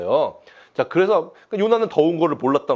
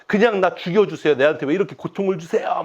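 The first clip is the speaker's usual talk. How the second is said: defiant complaint; 5 semitones higher than usual. Retold or imitated. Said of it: "바락바락 막 이렇게 덤비고 대드는 모습".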